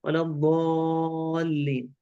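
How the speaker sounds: slow recitation, long open 'a' in الضالين; open dad. Shown as a demonstration. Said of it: "الضاد مفتوحة". (تلاوة الضالين بمدّ مفتوح)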